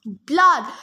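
loud bloodthirsty cry; arena crowd yelling. Acted. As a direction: bellow it like a crowd. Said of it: "the monsters cried".

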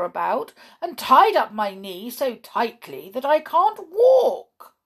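loud complaint climbing in pitch; indignant. A narrator's reading. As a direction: build the grievance to a high wail. Perry's indignant account of mistreatment.

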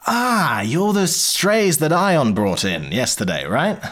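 slow Polly. Acted. GM voices Polly recognising them.

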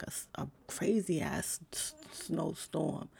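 words catch in a rough throat, fading out; croaky, trailing off. Real, not acted. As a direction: voice snags and fades before throat clearing.

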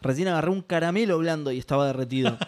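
chewing while talking; speaking through a mouthful; mouth full. Real, not acted. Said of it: "perdón que hable con la boca llena".

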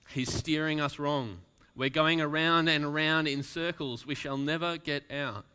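panicked rowers. Acted. Rowers fearing they are lost, panicked cry. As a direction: cry it out in fear.

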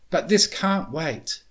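high, loud, insistent call; urgent shout. A narrator's reading. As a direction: insist loudly and slowly. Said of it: "Starlight shouted over her shoulder".

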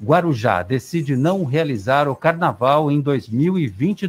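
radio headline read; news read. Acted.

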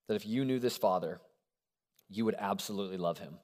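softly stated, low and hushed; quiet first statement. Shown as a demonstration. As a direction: lay it down gently and softly. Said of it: "I know it sounds like a cheat answer".

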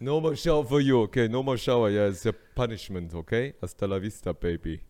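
hammed-up action-star scolding, easing off; Schwarzenegger. Father handing out punishment, hammed-up Schwarzenegger. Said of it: "besser eine Schwarzenegger-Impression machen vorher".

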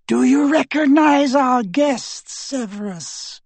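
high, slow, silky villain; cold dark lord. Acted. Voldemort shows the captive.

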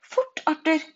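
high, loud call to hurry; urgent shout. A narrator's reading. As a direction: call out to your husband. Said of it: "ropte fru Wiltersen". (høyt, lyst rop)

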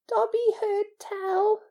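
high, slow creature voice; awed and hushed in intent, slightly hoarse; hoarse elf. A narrator's reading. House-elf begins recounting a rumour, slightly hoarse. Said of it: "he said hoarsely".

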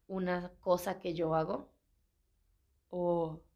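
yawning mid-sentence; words stretched by a yawn. Real, not acted. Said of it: "no es bostezo".

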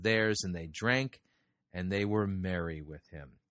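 measured, formal reading of the Bible passage; solemn Bible reading; scripture reading. Acted. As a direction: read the verses aloud to the congregation with care. Reading Genesis aloud in sermon.

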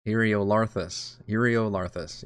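Eriolarthus slowly, as "ear-ee-oh-LAR-thus"; "Eriolarthus" drawn out with a clear "LAR"; practised pronunciation. Shown as a demonstration. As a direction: rehearse Eriolarthus slowly, syllable by syllable. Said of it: "I gotta say it a couple times".

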